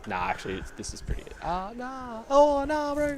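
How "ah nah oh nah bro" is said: high, hammed-up Kiwi accent. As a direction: put on a New Zealand accent, playful. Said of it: "doesn't involve a Kiwi accent".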